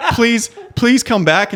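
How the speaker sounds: high, drawn-out mock plea with amusement; mock pleading. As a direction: imitate a pitiful man begging, half-laughing. Voicing a distraught man in bed.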